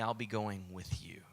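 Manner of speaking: soft whisper, close and gentle; whispered reassurance. Acted. God reassuring frightened Moses, in a whisper. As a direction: breathe it like a promise.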